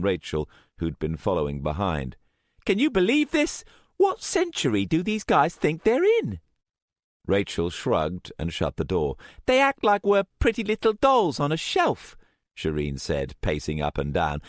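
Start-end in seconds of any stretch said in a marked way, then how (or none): 2.7-6.4 loud, high outraged rant; indignant teen fury. A narrator's reading. Shireen ranting angrily. 9.5-12.2 loud, high outraged rant; indignant teen fury. A narrator's reading. Shireen ranting angrily.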